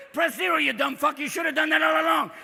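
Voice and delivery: mock-furious automated operator; irate phone menu. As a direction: berate the caller as a fed-up robot. Phone menu escalates into abuse.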